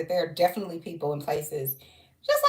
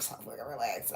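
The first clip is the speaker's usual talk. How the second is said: dreamy relaxed; 9 semitones lower, 12 dB quieter than usual. Real, not acted. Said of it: "I was like".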